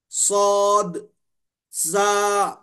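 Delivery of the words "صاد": صاد with a whistling hiss; whistling sibilant. Shown as a demonstration. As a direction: let صاد whistle through the teeth. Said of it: "سیٹی کی سی آواز نکلتی ہے". (صاد سیٹی کی طرح)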